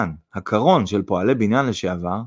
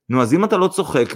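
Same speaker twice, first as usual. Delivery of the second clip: higher, playful lilt; cheerful; 6 semitones higher than usual. A narrator's reading. Mother teases her son, cheerful. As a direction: carry on merrily. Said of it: "בעליזות המשיכה זינה".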